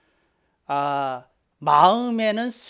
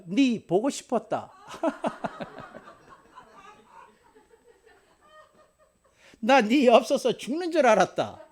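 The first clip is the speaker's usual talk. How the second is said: mock tender husband; 6 semitones higher than usual. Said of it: "이런 말 하면 얼마나 좋겠어".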